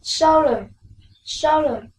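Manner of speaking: teacher drills "solemn" with first-syllable stress; stressed model word. Shown as a demonstration. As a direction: lean on "so" and let "lemn" fall. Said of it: "Now listen".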